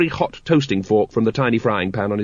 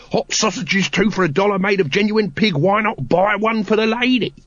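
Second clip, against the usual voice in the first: higher sing-song market call; sausage hawker's cry; 9 semitones higher than usual. A narrator's reading. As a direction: cry your wares over the crowd. Throat hawking sausages.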